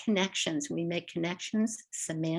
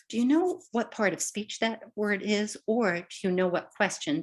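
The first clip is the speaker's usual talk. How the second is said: teacher questioning; 4 semitones higher than usual. Retold or imitated. Teacher asking students about the word, lightly voiced. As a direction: quiz your students lightly. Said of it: "I might even say to you".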